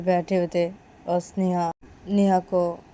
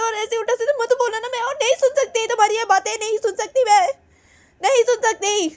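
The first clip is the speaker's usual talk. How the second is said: tearful pleading; 6 dB louder than usual. Acted. Neha begs, near tears.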